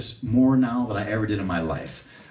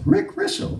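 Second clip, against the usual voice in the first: much higher, delighted cry of the name; excited recognition; slower than usual. Retold or imitated. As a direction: burst out the name in happy disbelief. Recognising old friend's name.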